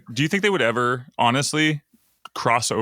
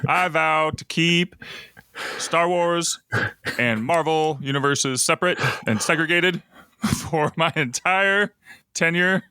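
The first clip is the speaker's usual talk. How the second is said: a light, slow Kennedy-style politician drawl; slow, measured pledge like a campaign speech; politician accent; 4 semitones higher, slower than usual. Pretend. As a candidate vowing to his voters, a slow Kennedy-ish politician accent. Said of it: "trying to do some kind of accent there".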